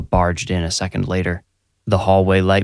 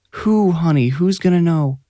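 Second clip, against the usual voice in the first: higher, gentle mother's voice; soothing mom; 10 semitones higher than usual. A narrator's reading. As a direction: coax him tenderly.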